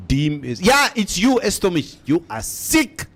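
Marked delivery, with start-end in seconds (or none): 2.1-3.1 slow, drawn-out, lightly mimicked elder statesman; Sam Nujoma. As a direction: stretch each word like a grave old leader scolding. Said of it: "In the voice of Sam Nujoma".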